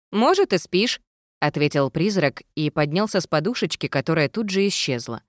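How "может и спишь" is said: lightly raised ghost voice; a cheeky ghost, a bit higher. A narrator's reading. Ghost character voice.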